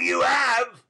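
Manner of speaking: loud, high angry yell; a rough man's furious shout. Acted. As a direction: bellow it at her. Sikes shouting at Nancy.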